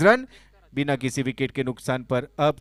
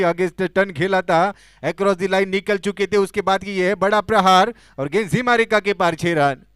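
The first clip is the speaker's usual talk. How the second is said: excited cricket commentary; 4 semitones higher, 5 dB louder than usual. Real, not acted. Commentator calls another six.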